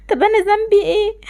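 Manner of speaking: tearful complaint, voice breaking; crying. Acted. Mistreated girl alone in her room, crying. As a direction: sob out the question in hurt. Girl cries over unfair parents.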